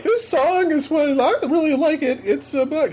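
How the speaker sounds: high, slow mock DJ intro; playing DJ. Kid hosting his own show, in a high, slow mock DJ voice. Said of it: "trying to be the D J".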